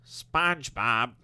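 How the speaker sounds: slow, bored nasal Squidward voice; unenthused Squidward. Retold or imitated. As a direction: say it with zero enthusiasm. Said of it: "I try to talk like someone who's not enthused".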